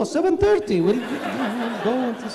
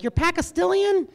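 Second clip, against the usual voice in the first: confused question; 11 semitones higher than usual. Retold or imitated. People in Hollywood confused by him.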